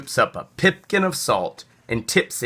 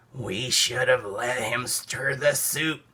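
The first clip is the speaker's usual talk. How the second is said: sniffling; 6 dB quieter than usual. Acted. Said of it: "sniffed the squirrel".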